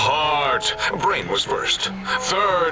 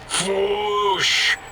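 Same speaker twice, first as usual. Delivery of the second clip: flush sound; 3 semitones higher than usual. Acted. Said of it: "That is the sound of flushing".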